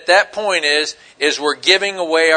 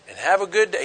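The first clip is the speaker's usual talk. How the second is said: sincere; 5 dB quieter, faster than usual. Retold or imitated. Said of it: "He didn't say it sarcastically".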